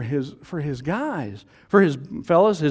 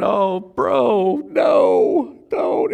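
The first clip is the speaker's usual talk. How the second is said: rising higher, louder protest; alarmed shout; 9 semitones higher, 6 dB louder, much slower than usual. Retold or imitated. Disciples shouting at Peter to stop, higher each word. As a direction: cry out to stop him. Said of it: "the disciples are going".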